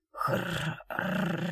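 put-on dying man barely croaking the girl's name; barely audible rasp. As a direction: rasp the name out with almost no breath. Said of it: "раздался чуть слышный хрип".

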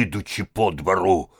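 ordinary delivery

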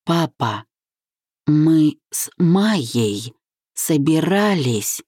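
very slow, halting words. A narrator's reading. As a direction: drag each word out heavily. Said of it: "ещё медленней". (ещё медленнее, с усилием)

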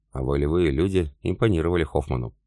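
ordinary delivery, nothing marked

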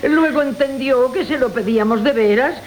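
laughing through the words, half amused. Acted. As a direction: chuckle your way through the mockery. Old woman mocks the gift. (riendo entre las palabras, con burla)

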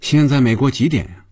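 sarcastic, high-pitched questions; taunting, pitch climbing at the end; mocking. A narrator's reading. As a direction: needle them with a mock-innocent question. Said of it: "嘲讽地说".

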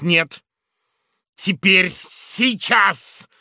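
loud, high furious insistence; angry demand. Acted. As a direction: demand the fight now. Carlos demands a duel.

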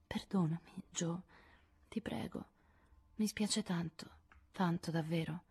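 sussurro pentito e timido; sussurrato. Acted. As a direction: supplica a fior di labbra. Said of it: "per sussurrarle". (Amy sussurra a Jo chiedendo perdono)

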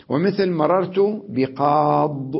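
slow emphatic demo of بقاض; pausal form. Shown as a demonstration. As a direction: stress بقاض without a ya. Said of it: "الوجه الثاني".

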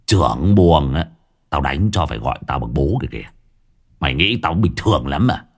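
a swaggering village thug boss, scornful; lightly voiced boss, sneering at old Tú. Gang boss mocking old Tú to his underlings, scornful. Long brags about prison days.

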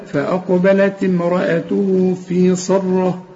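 فأقبلت امرأته في صرة slow, light then heavy letters; slow careful recitation. Shown as a demonstration. Teacher recites verse: slow, careful delivery. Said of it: "حروف مرققة".

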